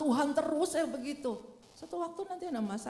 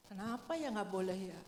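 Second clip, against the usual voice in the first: curious musing; 4 semitones lower, 6 dB quieter than usual. Retold or imitated. Curious human wondering aloud.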